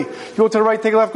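mock rapid-fire directions, evenly pitched; fast and quiet. Traveler giving landmine directions, fast and quiet. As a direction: rattle off directions in a hurried monotone. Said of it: "speak to you really fast and quietly".

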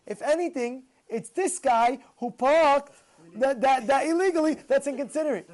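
usual speaking voice

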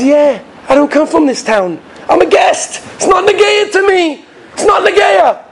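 high-pitched protest rising to a shout. Acted. Guest telling maggid it doesn't concern him, shouting. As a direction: wave it off at the top of the voice.

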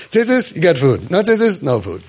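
a hint of a bossy parent laying down the rule; lightly mocking a harsh parent ultimatum; mock strict parent. Mocking how strict parents bargain with their kids, lightly sneering.

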